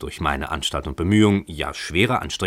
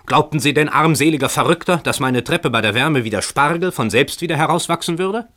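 higher and louder, scornful yelling; angry shouting; 7 semitones higher, 4 dB louder than usual. A narrator's reading. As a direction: yell mockingly at the poor tenant. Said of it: "schrie jener".

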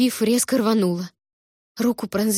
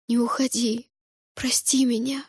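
pleading whisper; 3 semitones higher than usual. A narrator's reading. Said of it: "молила его о прощении".

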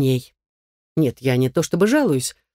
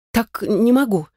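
small high squeak; 6 semitones higher than usual. A narrator's reading. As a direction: squeak it out timidly. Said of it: "пискнула".

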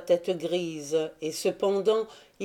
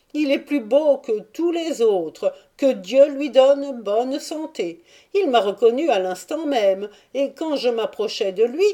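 higher, quick voice of the Jewish merchant; Jew's account; 4 semitones higher, 5 dB louder than usual. Acted. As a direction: defend Andry, then relay his words eagerly. Jew defends and recounts. (le juif rapporte les paroles d'Andry, voix aiguë et pressée)

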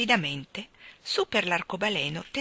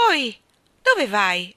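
anxious shout; 2 semitones higher, 7 dB louder, much slower than usual. A narrator's reading. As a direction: call after someone leaving, worried. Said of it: "gridò il re ansiosamente".

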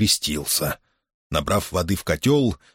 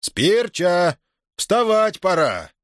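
firmer, slower wake-up call; sterner call; 10 semitones higher, much slower than usual. A narrator's reading. Master waking the boy again, now sterner. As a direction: stop coaxing and start ordering. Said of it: "стал заметно гуще, строже".

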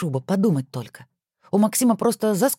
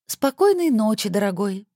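affected high, slow sweet voice; valley girl; 5 semitones higher than usual. Acted. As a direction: coo it back in a mannered voice. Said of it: "манерным голосом сказала Александра". (манерным голосом, высоко и протяжно)

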